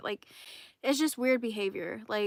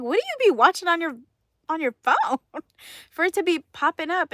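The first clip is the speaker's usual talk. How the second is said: quick, loud, higher teasing question; fast, playful ribbing question; 6 semitones higher, 8 dB louder than usual. Retold or imitated. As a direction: poke fun at what he watches. Teasing the coworker back.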